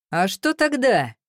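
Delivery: slow, high challenge. A narrator's reading. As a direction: raise your voice, daring her. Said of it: "повысил он голос".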